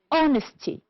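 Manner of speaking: honesty with HON high, then falling; stress on first syllable. Shown as a demonstration. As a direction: punch the start of honesty. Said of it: "two syllables before".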